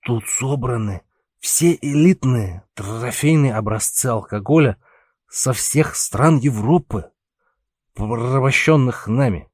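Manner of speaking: tipsy, tongue too heavy for words; drunken slur. Acted. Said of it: "заплетающимся языком вещал ему Пауль".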